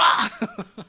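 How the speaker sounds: short high laugh. Real, not acted. Preacher laughs at his own bystander voice. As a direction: laugh at the joke.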